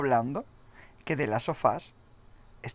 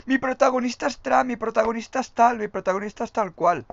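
lightly raised, boastful mock voice; mock boasting; 7 semitones higher, 3 dB louder than usual. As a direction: brag like a smug studio. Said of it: "todos los juegos de hoy en día presumen". (presumiendo en tono burlón)

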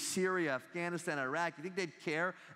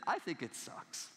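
slow, softer deadpan confession; honest ethics professor; 4 dB quieter, slower than usual. Retold or imitated. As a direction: say it slowly and quietly, owning it honestly. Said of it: "decided to be a good ethics professor".

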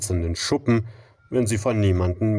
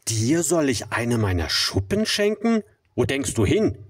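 proud refusal; 5 semitones higher than usual. Acted. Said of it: "rief der Regenbogenfisch".

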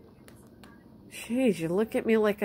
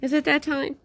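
higher, sing-song pet voice; pet talk; 6 semitones higher than usual. Real, not acted. Owner asking the pets about treat time, sing-song. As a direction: coo at the pets.

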